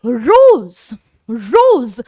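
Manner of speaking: रोज stretched slowly, French style; teacher modelling French rose. Shown as a demonstration. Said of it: "बोलने का थोड़ा सा तरीका बदल जाता है".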